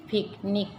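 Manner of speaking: पिकनिक broken as पिक, निक; split into syllables. Shown as a demonstration. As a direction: say पिकनिक in two separate beats. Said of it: "इनके syllable हिज्जे count".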